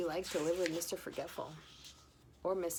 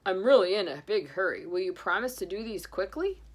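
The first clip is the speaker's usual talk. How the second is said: louder hurried plea; Santa; 6 dB louder than usual. Acted. Santa urging speed, hurried. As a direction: rush him along.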